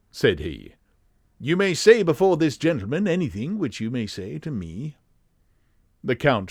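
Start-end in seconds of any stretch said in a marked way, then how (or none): 1.4-5.0 high-pitched English gentleman; very English, raised-pitch assurance; Sherlock Holmes. Acted. Detective vouching for his friend, high English voice. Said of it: "his high-pitched, very English voice".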